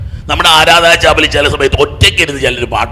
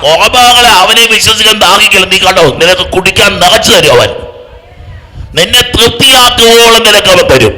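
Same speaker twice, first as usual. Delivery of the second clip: raised, forceful sermon voice; impassioned preaching; 5 semitones higher, 4 dB louder than usual. Real, not acted. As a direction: preach the promise out to the whole congregation.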